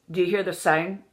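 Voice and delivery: "sound" said nearly as "sign"; overdone Irish "sound". Shown as a demonstration. Coach showing how listeners mishear, "sound" like "sign". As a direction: narrow the vowel in "sound" until it resembles "sign". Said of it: "The sign?".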